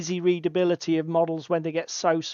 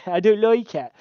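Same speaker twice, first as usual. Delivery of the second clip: laughing repeat; 2 semitones higher than usual. Shown as a demonstration. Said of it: "You said it wrong".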